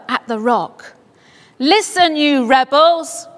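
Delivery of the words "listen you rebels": mild raised voice at the rebels; a firm call of "Listen, you rebels" pitched up and slow; shouted. Acted. Moses to the grumbling people, a raised but not full shout. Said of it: "he shouted".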